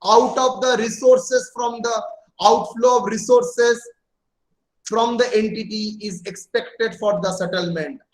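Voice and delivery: each word spelled out slowly for notes; slow dictation. Acted. Teacher dictating a definition to students, slow and even.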